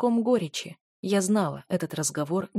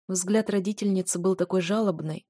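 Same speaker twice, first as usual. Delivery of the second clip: ordinary delivery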